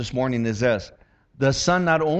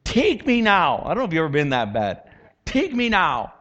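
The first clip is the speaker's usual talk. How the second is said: retold desperate plea; 2 semitones higher than usual. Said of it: "and I'm like".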